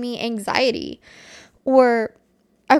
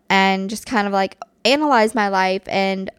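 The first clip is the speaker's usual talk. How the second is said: microphone knocked mid-sentence; bumping the mic while talking. Real, not acted. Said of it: "I keep hitting the microphone".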